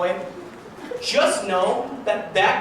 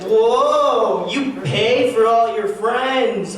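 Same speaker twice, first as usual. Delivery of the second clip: slow, louder hack comedian delivery; average comedian voice; 4 semitones higher, 5 dB louder, much slower than usual. Retold or imitated. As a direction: ham up a cheesy stand-up bit. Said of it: "average comedian voice is, like a ghost".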